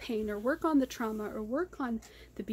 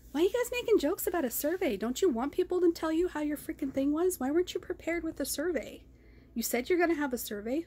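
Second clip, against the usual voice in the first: exasperated rant; 5 semitones higher than usual. Real, not acted. Ranting at the meeting hosts.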